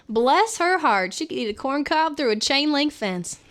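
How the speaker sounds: hammed-up Southern twang; Southern accent. Shown as a demonstration. Streamer performing a Southern put-down, Southern accent. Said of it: "I used to do a Southern accent".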